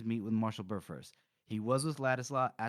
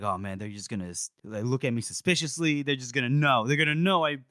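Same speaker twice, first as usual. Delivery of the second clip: mock nervous; 3 semitones higher, 4 dB louder than usual. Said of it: "And he's nervous".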